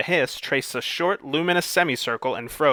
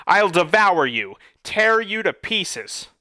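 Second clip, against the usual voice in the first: monster roar; 6 semitones higher, slower than usual. A narrator's reading. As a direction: bellow it to scare him off. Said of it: "the monster roared".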